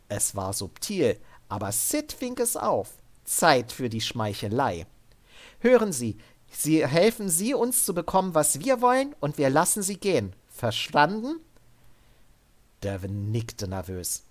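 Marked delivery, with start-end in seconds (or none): 5.6-11.4 higher, firm but controlled order; armored soldier woman. Acted. Sid ordering Devin up at gunpoint, higher and firm. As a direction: keep him steady with a calm threat.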